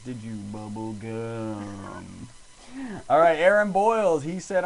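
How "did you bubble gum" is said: put-on southern accent. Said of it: "One of the things with a southern accent".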